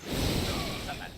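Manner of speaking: very high, slow squeak; high squeaky voice. Pretend. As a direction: squeeze it out in a tiny falsetto. Same line repeated differently.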